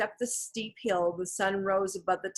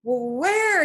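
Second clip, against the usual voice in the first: high, loud questioning shout; urgent raised question; searching call; 8 semitones higher, 5 dB louder than usual. A narrator's reading. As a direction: call out again, stretching the question. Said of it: "he repeated".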